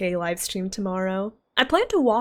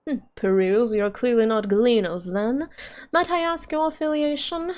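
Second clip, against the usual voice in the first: pinched nasal custodian; prim, nasally official. Acted. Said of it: "Why did I give him a nasally voice?".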